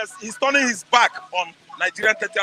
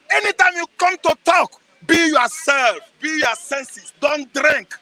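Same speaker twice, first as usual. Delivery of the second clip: raised exhortation; 3 semitones higher, slower than usual. Real, not acted. Exhorting voters passionately.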